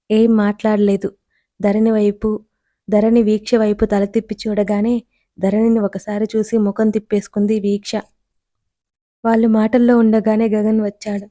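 ordinary delivery

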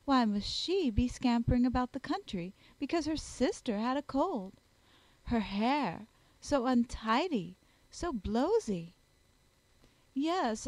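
a hint of a gossiping society lady; lightly voiced scornful sister. Sister mocking Elizabeth's muddy walk to her brother, mildly scornful. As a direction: pick over her untidy looks with mild disdain.

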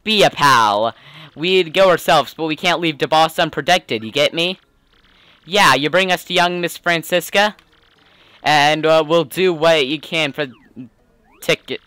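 streetwise gangster's sidekick voice; mob henchman. Acted. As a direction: talk like the boss's loyal goon.

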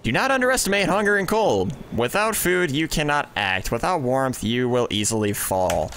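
lightly hammed Old English accent; a touch of Old English accent, retried. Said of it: "I'm not good with that accent".

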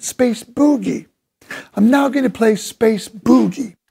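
put-on "boogie" with a clipped English "puɡi", English accent. Drummer imitates a famous drummer announcing a tune, English accent. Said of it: "in his very nice English accent".

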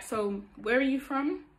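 light question with a rising end; gently curious, lilting upward; feminine. Shown as a demonstration. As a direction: demonstrate asking sweetly, without aggression. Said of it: "be feminine about it".

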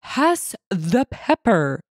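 slow, irritated snarl from a diner; snarled demand. A narrator's reading. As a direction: stretch the words out with annoyance. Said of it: "the man snarled again".

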